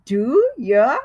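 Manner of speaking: teacher voice. Shown as a demonstration. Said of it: "Your teacher tells you this always".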